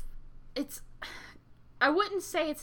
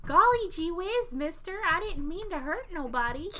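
put-on wholesome 1950s kid; 5 semitones higher than usual. Voicing the killer innocently.

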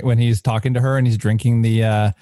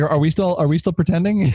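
clueless character voice; 6 semitones higher than usual. Retold or imitated. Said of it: "he's like".

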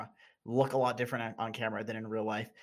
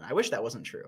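ordinary talk, nothing marked

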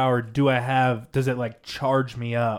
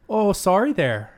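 higher-pitched mock Canadian accent; 6 semitones higher than usual. Showing friends the accent that was praised, Canadian accent. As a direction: apologize like a Canadian. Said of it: "That was a good Canadian accent".

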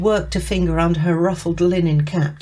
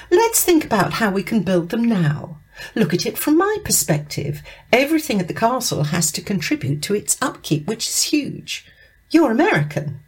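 lightly voiced boss, pitched higher; pressing programme director; 6 semitones higher than usual. Director to tour guide about castle upkeep, pressing, higher voice. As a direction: press your point as a demanding boss.

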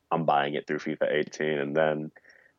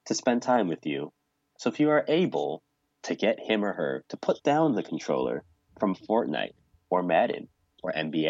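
measured public service announcement, broken by long pauses; generic announcer voice. Pretend. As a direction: deliver a mock-formal PSA with deliberate pauses. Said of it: "let me get my generic voice going".

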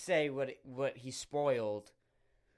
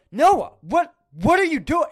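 much higher and louder, a squealing disbelieving cry; shocked shriek; 12 semitones higher, 13 dB louder than usual. Retold or imitated. Shrieking at Noah in retold horror. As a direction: screech it in horrified disbelief.

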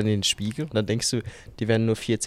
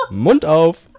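laughing dentist quote; 6 semitones higher, 10 dB louder than usual. Retold or imitated. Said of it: "und er dann".

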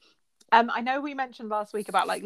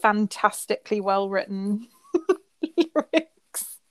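drawn-out sarcastic praise, pitch lifting on lyrics; mock admiration, laughing through it; slower than usual. To a friend, mocking a rapper's lyrics in sarcastic praise.

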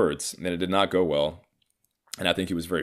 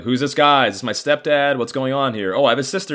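mock bewilderment; 6 semitones higher, 5 dB louder than usual. Mimics own confusion at family surprises.

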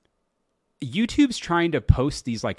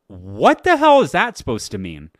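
indignant outburst; 7 dB louder than usual. Real, not acted. Indignant at reply.

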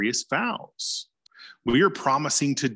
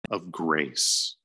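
reading a quote aloud; 4 semitones higher than usual. Retold or imitated. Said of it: "So he says".

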